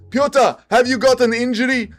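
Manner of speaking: mock questioner. Acts out the press conference question.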